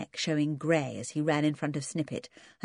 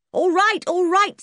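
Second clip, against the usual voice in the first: high, loud and cross; angry concession; 7 dB louder than usual. Acted. George snapping back at the twins, angry. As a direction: give in angrily. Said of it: "glaring as angrily as the twins".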